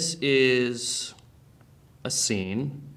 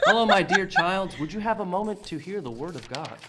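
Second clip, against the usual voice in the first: high, gentle preacher voice; kindly pastor; 5 semitones higher, 4 dB louder than usual. Acted. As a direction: greet like a sweet pastor. Pastor enters in acted scene.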